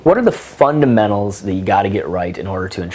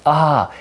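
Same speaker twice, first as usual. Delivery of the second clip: delighted ah; 6 semitones higher than usual. Retold or imitated. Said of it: "my face just kinda lights up".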